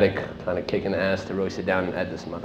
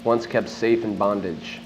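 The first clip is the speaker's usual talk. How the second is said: measured recitation to an audience, phrase by phrase; poetry-reading delivery, each phrase set apart; literary reading aloud. Acted. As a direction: declaim it as spoken verse, with deliberate pauses between lines. Reads own work to audience.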